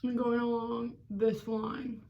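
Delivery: cheeks sucked in, speaking slowly; fish face. Real, not acted. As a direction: talk through sucked-in cheeks. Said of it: "sucking in my cheeks".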